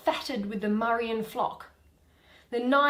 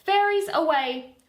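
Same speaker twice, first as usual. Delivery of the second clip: higher, louder call to the fairies; sharp command; 5 semitones higher, 5 dB louder than usual. Acted. Titania orders her fairies away from Oberon, loud command. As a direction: snap the order out to send them off.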